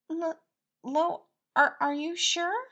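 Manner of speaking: high stammering disbelief; stunned Patton. Acted. Baker asked to be boyfriend, stammering high. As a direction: stumble over the question.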